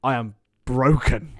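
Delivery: slow, low hammed-up I am broken; theatrical lament; mock despair. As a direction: play it as a melodramatic wreck.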